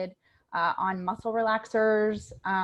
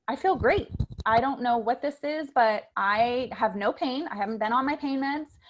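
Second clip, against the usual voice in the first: mildly excited mom; 4 semitones higher, 4 dB louder than usual. Retold or imitated. Mom on the phone, pain gone.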